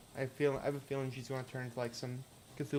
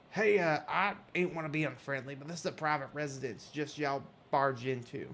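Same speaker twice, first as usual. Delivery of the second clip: lightly voiced homeowner. Owner telling intruders it's private, lightly voiced. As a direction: play the annoyed house owner.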